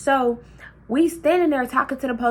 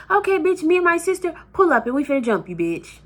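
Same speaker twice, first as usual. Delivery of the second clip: mock threat; 4 semitones higher than usual. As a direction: throw the threat right back. Retelling threat to auntie.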